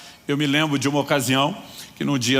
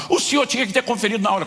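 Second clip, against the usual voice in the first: higher and fast mock indignation; cashier again indignant; 7 semitones higher, faster than usual. Cashier to manager, fast indignant retort. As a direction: rattle off the same excuse. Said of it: "Começou a mesma coisa".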